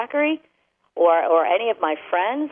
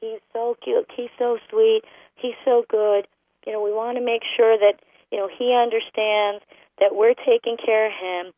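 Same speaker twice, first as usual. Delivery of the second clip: doting owner; 4 semitones higher than usual. Retold or imitated. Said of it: "we look at it as".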